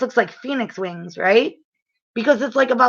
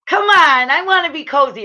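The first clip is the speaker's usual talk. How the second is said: high, pleading whine to stay in bed; mock-whiny come on; whiny plea; 6 semitones higher, 3 dB louder than usual. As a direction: beg to stay cozy. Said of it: "I was like".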